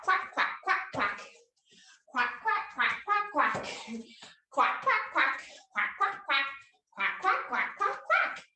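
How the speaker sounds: waddle and quack like a cartoon duck. Shown as a demonstration. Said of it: "waddle in a circle and quack".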